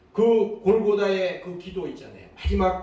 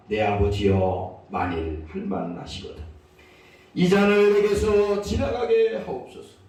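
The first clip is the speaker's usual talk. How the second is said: anguished prayer; 5 dB louder than usual. Acted. Jesus begs the Father in Gethsemane, anguished prayer. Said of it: "예수님의 이 절규 있는 기".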